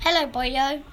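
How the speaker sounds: put-on light Welsh accent greeting. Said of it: "He disguised himself ... Welsh accent".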